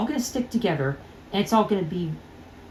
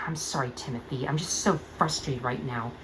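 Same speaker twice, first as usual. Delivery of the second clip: much softer, sighing apology; deflated apology; 5 semitones lower, 9 dB quieter than usual. Acted. Starlight apologises to Timothy, deflated and soft. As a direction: let the anger drain out. Starlight calming after outburst.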